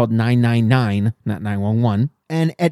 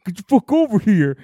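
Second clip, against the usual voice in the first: put-on demanding girlfriend; 2 semitones higher than usual. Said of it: "she's like".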